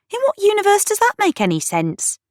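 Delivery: very high, exasperated disbelief; incredulous. A narrator's reading. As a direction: protest that it is absurd. Friend rants in disbelief.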